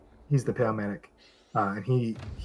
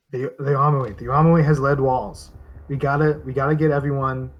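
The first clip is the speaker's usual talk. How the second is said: raised, insistent voice with stumbling repeats; urgent; 3 semitones higher, 4 dB louder, faster than usual. Acted. Game master as panicking soldier urging everyone to shelter, urgent. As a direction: press the point urgently, tripping over words. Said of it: "He's like".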